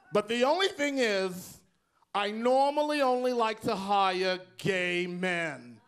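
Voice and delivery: lightly voiced New York boss lady, slow at the end; a hint of a gravel-free Rosie, drawn out. Strip-club boss Rosie interviewing the narrator, lightly voiced New York accent. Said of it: "she talked just like this".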